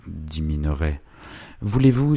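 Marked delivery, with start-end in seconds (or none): 1.6-2.1 a higher, mildly exclaimed cut-in; interrupting exclamation. A narrator's reading. Gentleman interrupts the husband's excuse, mildly exclaiming. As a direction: cut in with a raised pitch. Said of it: "s'écria Savigny en l'interrompant".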